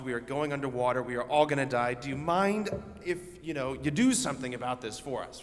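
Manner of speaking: mock panic. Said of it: "I don't think that's what it sounded like".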